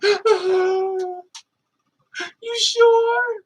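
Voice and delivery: hammed-up crying denial; mock shocked innocence. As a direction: fake wounded disbelief. Addict gasps, denies.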